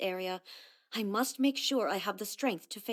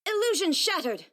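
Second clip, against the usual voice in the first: battle cry; 9 semitones higher, 4 dB louder than usual. Acted.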